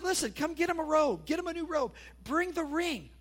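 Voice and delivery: high, excited commands to the servants; eager orders. Acted. Father calling to servants for robe and ring, high and eager. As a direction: call out orders with joy.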